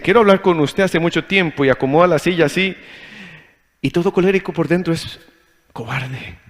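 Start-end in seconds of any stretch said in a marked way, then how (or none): 0.0-1.6 wife's serious request. Retold or imitated. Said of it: "Y me dice".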